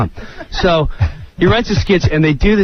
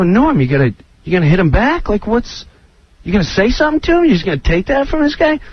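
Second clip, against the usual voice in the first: higher, fast needling; pushing Norm to fight back; egging him on; 4 semitones higher, faster than usual. Retold or imitated. Speaker urging Norm to hit back at Katan, fast and higher. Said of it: "I would stand and go".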